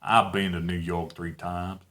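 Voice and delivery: American accent. Shown as a demonstration. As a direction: swallow the "v" like a relaxed American speaker. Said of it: "somebody from the United States".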